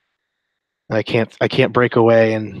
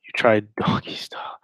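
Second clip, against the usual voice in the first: whisper. Pretend. Reading a lewd message aloud.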